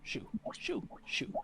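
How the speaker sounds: soft, voiceless single words, evenly spaced; each shoe individually. Shown as a demonstration. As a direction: whisper one word for every footstep. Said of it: "Each shoe individually".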